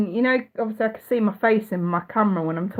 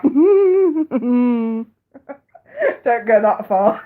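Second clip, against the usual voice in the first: laughing; 2 semitones higher, 4 dB louder, much slower than usual. Real, not acted.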